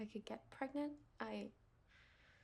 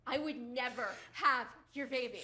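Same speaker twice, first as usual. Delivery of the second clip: slow defiant taunt; 6 dB louder than usual. Acted. Wife defies husband.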